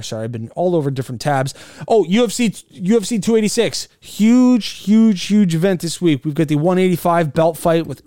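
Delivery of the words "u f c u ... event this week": excited. Real, not acted. Hyped event announcement.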